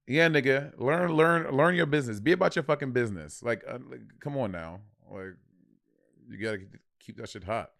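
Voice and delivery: lightly put-on New York accent; New York talk. Co-host needling the other in light New York talk. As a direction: do a bit of casual New York street talk. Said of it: "you do your New York talk".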